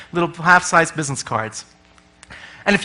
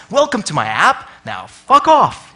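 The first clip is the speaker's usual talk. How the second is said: slow, blunt sarcastic dismissal; sweet welcome then slowly tell them off; mock rude welcome. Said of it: "which I read as".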